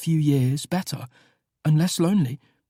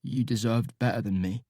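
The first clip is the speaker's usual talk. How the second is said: tearful; 6 semitones lower, 6 dB quieter than usual. A narrator's reading. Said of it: "He chokes back a little sob".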